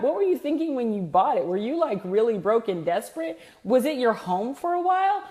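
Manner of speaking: high, sneering condescending dealer; mocking salesman. Snooty car dealer sneering at a customer's Volkswagen. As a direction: scoff at the customer's old car.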